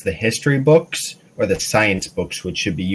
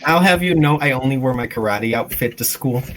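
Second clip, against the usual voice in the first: indignant retort; 5 semitones higher than usual. Acted. Tony's player retorts in character.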